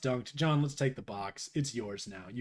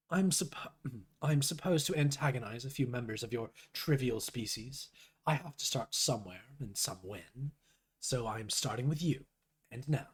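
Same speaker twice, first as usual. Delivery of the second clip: soft, slightly lowered troll voice; lightly voiced aloof troll; 4 dB quieter than usual. Troll messaging Rose to antagonize her, lightly voiced, quiet and aloof. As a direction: read the troll's message with understated disdain. Reads a troll's chat lines.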